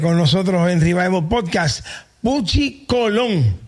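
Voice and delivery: podcast host calling out the guest's name; host introduction. Real, not acted. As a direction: stretch the name out like a show host bringing on a guest.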